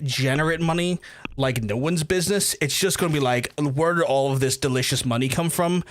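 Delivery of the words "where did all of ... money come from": mock greedy villain. Greedy villain laugh at money.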